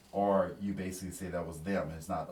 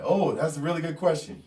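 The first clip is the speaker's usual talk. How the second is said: presenter; 8 semitones higher, 8 dB louder than usual. Retold or imitated. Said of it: "he's like".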